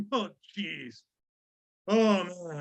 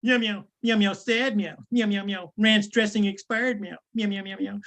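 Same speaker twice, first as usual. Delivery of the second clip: a cat meowing, sad little meows; nervous cat voice. Pretend. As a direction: meow like a fretful cat. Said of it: "I usually do the meow meow".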